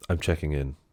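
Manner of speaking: icy, cold, unfriendly delivery. Retelling how the rich lady answers the desk clerk: imitating a cold reply. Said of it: "She just coldly says".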